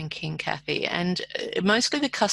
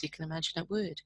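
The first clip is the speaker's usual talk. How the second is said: soft whispered aside; whispered aside to the host; 8 dB quieter, faster than usual. Real, not acted. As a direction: drop to a breathy whisper. Aside after life-changing story.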